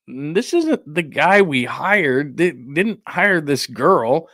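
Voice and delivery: slow, drawn-out imagined complaint; stretched-out mock dismay; mock grumbling. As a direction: imitate a disgruntled employer, dragging the words. Imagined North Carolina reaction to girlfriend.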